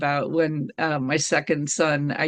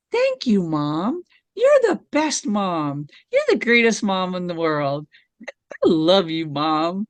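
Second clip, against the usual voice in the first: out-loud self-praise; 3 dB louder than usual. Retold or imitated. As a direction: proclaim it like an adoring child, out loud. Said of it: "I would say that out loud".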